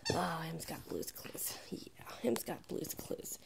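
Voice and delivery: hushed, slow cooing to the puppy. Real, not acted. Slow baby talk to dog.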